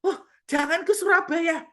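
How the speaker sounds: high, loud panicked order; ordering the spirit not to go to her city; urgent command. Retold or imitated. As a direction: forbid it sharply, in a rush. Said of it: "makin sadar".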